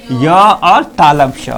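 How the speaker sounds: य और तालब श said slowly, every sound clear; slow clear demo. Shown as a demonstration. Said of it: "य बोल के देखो". (धीरे धीरे य और तालब श)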